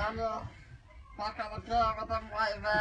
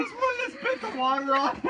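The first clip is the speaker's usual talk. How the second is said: helium voice; 11 semitones higher, 6 dB louder than usual. Real, not acted. Helium balloon game.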